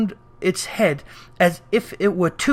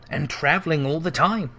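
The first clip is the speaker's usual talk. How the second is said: musing; 4 dB quieter than usual. Acted. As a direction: think it over aloud. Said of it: "mused Scrooge".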